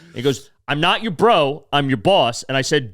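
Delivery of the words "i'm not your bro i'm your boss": retold stern telling-off; imitating angry boss. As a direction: act out a boss pulling rank. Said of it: "just yell at people".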